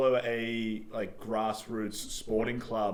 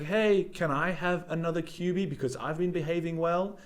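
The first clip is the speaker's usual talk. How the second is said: higher-pitched pleading pupil; primary school kid; 7 semitones higher than usual. Acted. Pupil asking for another reward, hopeful kid voice. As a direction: ask eagerly like a well-behaved schoolkid. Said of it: "It's like in primary school".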